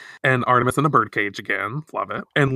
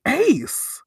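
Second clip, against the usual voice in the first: swooning; 14 semitones higher than usual. Retold or imitated. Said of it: "Minako's like".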